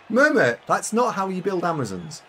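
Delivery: loud, high, teasing tell-off; mock scolding. Streamer teasing a chatter about team building. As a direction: scold them in jest.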